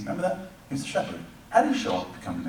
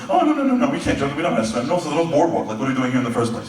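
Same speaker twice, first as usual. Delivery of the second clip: mock panicked refusal; 3 semitones higher, 4 dB louder, faster than usual. Fishermen balk at entering the sea.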